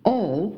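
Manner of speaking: "all" with the final L dropped; mistaken final L. Shown as a demonstration. Teacher showing students' common error on "all", final L dropped. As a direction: say "all" ending in a rounded vowel, no L. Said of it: "很多中国学生发L这个音，就是比如说啊".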